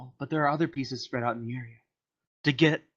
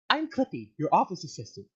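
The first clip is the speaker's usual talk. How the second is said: chirpy Clippy voice; 3 semitones higher than usual. Acted. Alien paperclip introduces itself.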